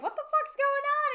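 high, slow bewildered outburst; confused mayor. Retold or imitated. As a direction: play the baffled mayor. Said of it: "he's like".

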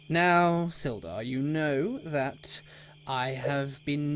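lightly voiced self-important official; a hint of officious regret, measured; pompous townmaster. Townmaster justifies the arrest to Sildar, lightly pompous.

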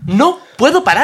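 lamento exagerado, agudo, fuerte y lento; llanto fingido. Acted. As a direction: imita a alguien desbordado por el llanto. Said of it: "pero llorando de decir". (llorando de forma teatral)

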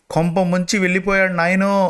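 narrator's restrained high-pitched wailing; mock wail. A narrator's reading. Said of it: "అంటూ గట్టిగా ఏడుపు మొదలుపెట్టింది".

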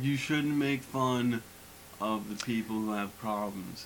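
slow, mock preachy voice. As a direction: drag it out like a scold. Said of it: "some people who are like".

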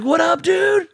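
high, bright imitation of a buddy's hello; friendly greeting impression. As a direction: greet like a buddy spotting you on the highway. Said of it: "he's like".

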